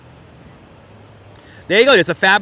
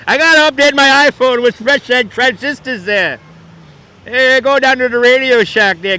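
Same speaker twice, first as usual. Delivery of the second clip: a put-on, higher and louder customer voice, lightly hammed; mock customer voice; 6 semitones higher, 5 dB louder than usual. Host mimics a customer sending someone to Radio Shack, put-on voice. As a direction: play a pushy shop customer asking for parts.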